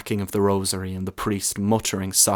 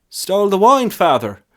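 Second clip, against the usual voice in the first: high, louder startled question; shocked lad; 10 semitones higher, 7 dB louder than usual. A narrator's reading. Lad shocked by news of stolen altar wine. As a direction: gasp it out in disbelief.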